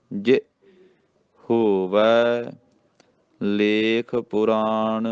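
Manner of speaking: ਜੇ clipped as "ji", then a pause; brief ਜੇ, slowly drawn ਹੋਵੈ ਲੇਖ ਪੁਰਾਣ; short i sound. Shown as a demonstration. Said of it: "ਸਿਹਾਰੀ ਨਾਲ ਖਿੱਚ ਕੇ ਬੋਲਣਾ".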